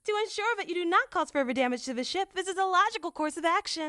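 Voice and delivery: high, even, precise machine voice; lightly robotic assistant voice; android. Acted. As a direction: speak like a polite ship android. Android character voice.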